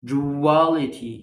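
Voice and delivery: duality very slow, du as ju; slow syllables. Shown as a demonstration. Teacher sounding out duality slowly. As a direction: drag duality out. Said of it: "بنطقها ج".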